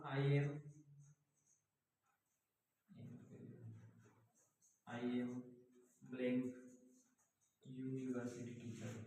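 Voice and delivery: very slow, dictated word by word; teacher dictating an example, very slow; slow example read. Shown as a demonstration. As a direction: read the sample sentence out slowly for the class. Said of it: "मतलब मैं बोलूँगा".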